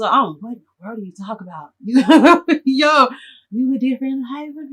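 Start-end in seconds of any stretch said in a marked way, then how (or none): 1.8-2.6 laughs. Real, not acted. Laughing at his own story.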